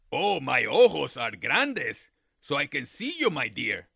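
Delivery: low, sly coyote voice; a hungry coyote playing innocent; deep sly coyote.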